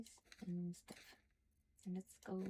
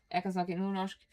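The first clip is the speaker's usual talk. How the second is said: Northern Norwegian dialect demo, spoken louder; 5 dB louder than usual. Shown as a demonstration. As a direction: show off the Northern Norwegian accent. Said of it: "Do you want Northern Norwegian, like me?".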